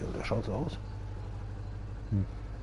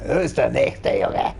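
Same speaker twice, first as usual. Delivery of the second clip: slow, savoured villain gloat; lightly voiced villain; mock villain; 3 semitones lower, 4 dB quieter, slower than usual. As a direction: gloat over your victims, drawn out. Villain line after cackle.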